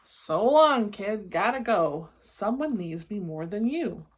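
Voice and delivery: gruff taunting monster farewell; mock-mean monster saying goodbye. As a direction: sneer it as the departing monster. Monster Gabe leaving, taunting.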